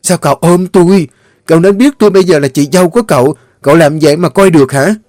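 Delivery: wife furious at her brother-in-law; angry scolding. A narrator's reading. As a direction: scold him for crossing the line.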